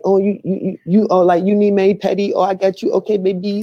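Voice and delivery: high mocking imitation of an Asian accent. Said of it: "he do the Asian accent".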